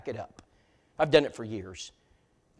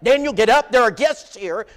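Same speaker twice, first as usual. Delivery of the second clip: high, loud falsetto call to the husband; mock shrill wife yelling; 7 semitones higher, 10 dB louder than usual. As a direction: bark it like a bossy wife waking her man. Brenda yelling at her husband.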